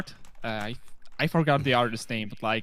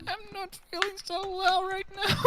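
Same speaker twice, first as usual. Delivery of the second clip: Pinkamena. Acted. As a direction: squeak it as an unwell cartoon pony. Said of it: "Pinkie Pie turns into Pinkamena".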